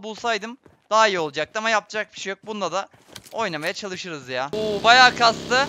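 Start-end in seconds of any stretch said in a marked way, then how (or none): 4.5-5.7 long stretched wary oo; drawn-out louder mutter. Real, not acted. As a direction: stretch the words out, impressed and wary. Enemy spotted, dragged out.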